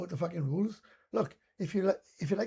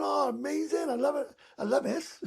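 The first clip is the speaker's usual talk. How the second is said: higher, bright gushing enthusiasm, imitated; mock delight; 8 semitones higher than usual. Darts players gushing to each other, mock excited. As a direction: gush like a happy punter at the oche.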